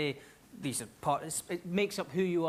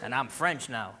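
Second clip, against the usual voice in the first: put-on tag French accent; 5 semitones lower than usual. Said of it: "it just descends into French".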